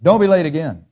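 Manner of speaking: calm unbending boss; firm reproof. Shown as a demonstration. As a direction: lay down the rule without arguing. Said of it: "Here's the reproof".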